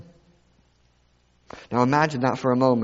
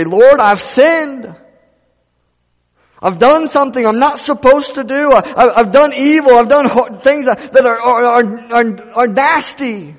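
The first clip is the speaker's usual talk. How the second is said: full force preaching; 10 semitones higher, 9 dB louder than usual. Acted. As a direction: preach it hard to the church. Preacher voices a confession.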